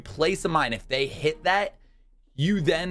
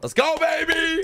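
excited shout; 14 semitones higher, 4 dB louder than usual. Real, not acted. Hyped game start shout.

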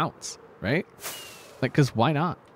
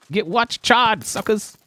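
loud taunt; 7 semitones higher, 5 dB louder than usual. Real, not acted. Taunting in-game victory.

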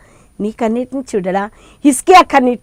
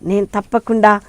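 fervent pleading prayer; 4 dB louder than usual. Acted. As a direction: plead like a struggling mother at his feet. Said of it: "అని ఎప్పుడైతే ఆయన పాదాలు పట్టుకుంటావో". (దేవునికి బిగ్గరగా వేడుకోలు)

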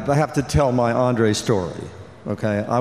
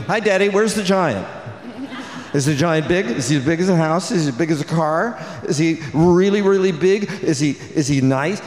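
put-on higher, eager child's voice asking questions; excited little daughter; 4 semitones higher than usual. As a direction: imitate a little girl pestering her dad. Daughters asking on phone call.

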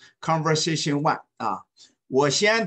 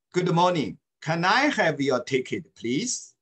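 领读; 2 semitones higher than usual. Shown as a demonstration. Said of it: "read after me, please".

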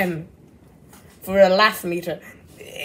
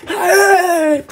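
imitated scream; 6 semitones higher, 4 dB louder than usual. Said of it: "I heard a scream like".

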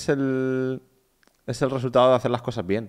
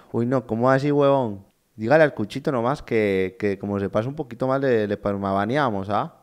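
mock Colombian accent, lightly voiced; a touch of Colombian accent; imitating Westcol. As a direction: play the Colombian streamer bragging. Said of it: "tú pones a un español hablando así".

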